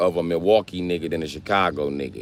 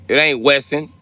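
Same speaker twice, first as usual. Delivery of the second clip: heated retort; 7 semitones higher, 5 dB louder than usual. Real, not acted. Arguing with chat over the street name.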